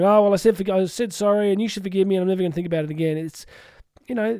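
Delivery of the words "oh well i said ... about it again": fast, flippant brush-off; mock careless excuse, tossed off quickly; dismissive mock voice. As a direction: rattle it off like it's no big deal. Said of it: "and going".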